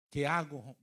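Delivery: loud, panicked cry retold; growing desperation. Pastor alone finding the congregation gone, acting desperate. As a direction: blurt it out in mock despair. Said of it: "me empecé a desesperar".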